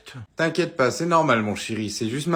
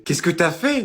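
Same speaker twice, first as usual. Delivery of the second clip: angry mum; 4 semitones higher than usual. Acted. Mum scolding son.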